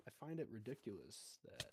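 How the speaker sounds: talking through a yawn; words stretched by a yawn. Real, not acted. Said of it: "Sorry, I yawned".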